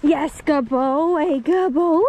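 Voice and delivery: high, slow, drawn-out dog praise; squeaky praising a dog. Real, not acted. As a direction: gush over the dog in a squeaky voice. Praising dog after fetch.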